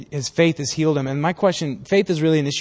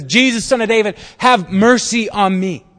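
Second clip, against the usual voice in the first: first call; 6 semitones higher, 4 dB louder than usual. Acted. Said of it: "And so he says".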